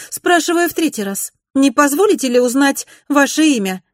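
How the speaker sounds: high, loud, impatient demand; impatient lady. A narrator's reading. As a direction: press her for a name, losing patience. Mrs Glenorm impatient.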